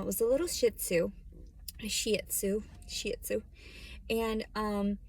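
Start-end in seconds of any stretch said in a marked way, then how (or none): 1.8-2.6 whispered. Real, not acted. Repeating breed name softly. 2.9-3.4 whispered. Real, not acted. Repeating breed name softly.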